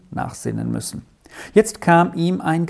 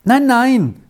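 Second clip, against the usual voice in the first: higher-pitched, mildly soothing no-no; raised pitch, meant to reassure; reassuring; 10 semitones higher, 5 dB louder than usual. A narrator's reading. Boy calms the other boy, mildly reassuring. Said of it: "sagte Peppino beruhigend".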